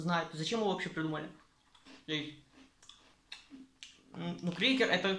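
talking around food; chewing while talking. Real, not acted. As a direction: mouth partly full. Seen 1: Puts cracker in mouth at 0.2, then chews with pursed lips.

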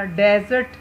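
डेजर्ट with the weight on डे; डे stressed, जर्ट lighter; stress on first syllable. Shown as a demonstration. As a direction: punch the डे in डेजर्ट. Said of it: "जो underline पहला हिस्सा है".

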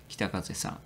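breathy whispered 北風さん; a soft apologetic whisper. Real, not acted. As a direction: whisper the name as a sheepish aside. Whispered aside after apology.

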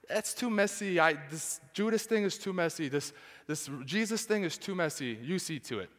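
hushed dismissive handoff; dismissive Pilate. Acted. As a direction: wave it away quietly. Voicing Pilate's brushoff.

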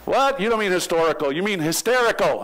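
puzzled friend correcting him; surprised friend. Retold or imitated. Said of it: "The guy said".

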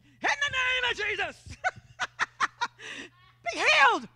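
giddy healing command broken by laughter; laughing prayer. Retold or imitated. Laughing as she prays over her coworker's headache. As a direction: command healing while cracking up.

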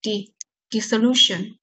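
"di-" picked out, then slow "dissolution"; "dissolution" with lighter stress on "di", main on "lu"; secondary stress. Shown as a demonstration. Teacher shows students the secondary stress, slow syllable demo. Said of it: "还有个次重音".

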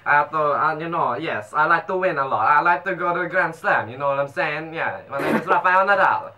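put-on amateur Spanish accent as a tennis star; half-convincing Spanish-accented English. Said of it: "Speaking in a Spanish accent".

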